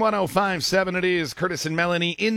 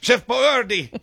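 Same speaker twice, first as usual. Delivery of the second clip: higher, slow hammy pitchman; one more hammy Boyardee; ad voice again; 5 semitones higher, slower than usual. Retold or imitated. Host tagging the bit with the ad voice. Echoing the ad voice.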